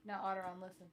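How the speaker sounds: epic narrator voice. Acted. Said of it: "an epic narrator voice".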